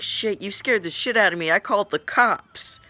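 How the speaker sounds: high, loud outraged yell; retold screaming. Pranked teller yelling at the prankster friend, screaming. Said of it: "and I was screaming".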